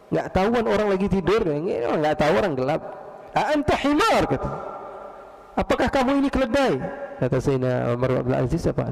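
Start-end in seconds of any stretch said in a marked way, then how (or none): 3.3-4.2 high, cross Arabic challenge; indignant yelling. Retold or imitated. Man trodden on insults the unseen caliph, indignant high outburst. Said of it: "Teriak dia". 5.6-6.7 high, accusing question, imitated; indignant yelling. Man trodden on questions the caliph, indignant high challenge. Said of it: "Teriak dia".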